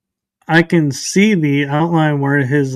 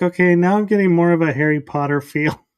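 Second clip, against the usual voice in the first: laughing; 3 semitones higher, faster than usual. Retold or imitated. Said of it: "I was like".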